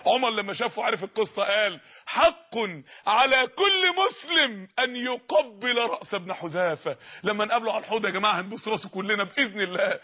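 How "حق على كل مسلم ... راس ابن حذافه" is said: proclaiming shout. Acted. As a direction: declare it to the whole crowd. Umar's public proclamation.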